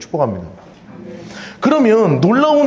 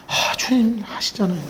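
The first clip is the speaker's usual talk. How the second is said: humble Peter; 3 semitones higher, 7 dB quieter than usual. Acted. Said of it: "주님 사랑한 줄 주님이 아시잖아요".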